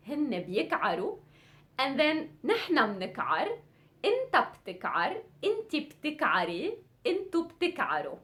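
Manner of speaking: quick-fire drill; rapid teacher recital; fast conjugation drill. Shown as a demonstration. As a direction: rattle through the forms. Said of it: "really quick".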